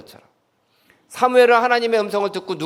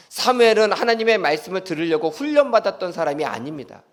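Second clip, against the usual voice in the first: normal talking voice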